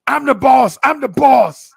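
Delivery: high, loud, bratty little puppy voice; cocky puppy. Retold or imitated. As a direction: squeak it out like a tiny pup claiming the boss spot. Puppy challenging the daddy dog.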